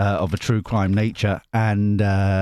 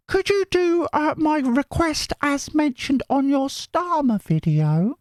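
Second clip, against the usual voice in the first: high put-on voice reading a viewer comment; falsetto reading voice; slower than usual. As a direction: read the comment in a sweet high voice.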